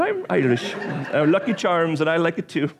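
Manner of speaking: joking hint of Irish accent; mock Irish. Pastor joking to congregation, mock Irish accent. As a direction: play a cartoon Irishman with a laugh. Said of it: "I sound like an Irishman now".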